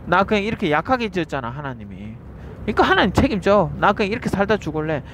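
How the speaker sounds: voicing the devil's thought. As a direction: act out the lazy excuse the devil plants. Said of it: "그래서 그 생각이 드는 거예요".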